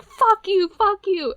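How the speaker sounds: high mock shout of fuck you; mock angry yell. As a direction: hurl it like an angry customer. Customer cursing at manager.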